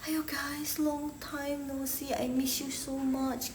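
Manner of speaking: soft, slow, tender hello; fond greeting. Acted. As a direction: greet a friend you really missed. Greeting a long-missed friend.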